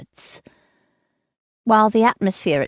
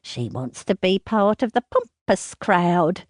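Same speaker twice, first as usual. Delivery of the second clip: sneering mother; 2 semitones higher than usual. Acted. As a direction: sneer at her, then rant. Mother mocks and scolds daughter.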